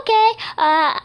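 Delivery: very high small hesitant voice; mini-me unsure. Retold or imitated. Tiny double answering the panicking dreamer, high and unsure. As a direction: squeak a puzzled okay. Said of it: "he was like".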